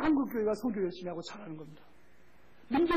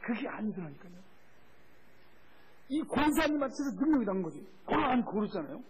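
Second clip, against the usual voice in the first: ordinary talk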